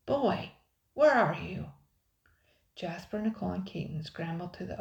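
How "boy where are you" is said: loud, high searching shout; booming call. A narrator's reading. Pirate outside the crevice hunts the boy, booming. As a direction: call out menacingly for a runaway. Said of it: "boomed a voice from somewhere outside".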